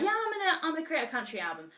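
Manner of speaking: yelped high start, then a very fast rush; mock-giddy announcement, tumbling out; imitating a singer. A singer telling her producers about a country album, giddy mock excitement. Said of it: "was like".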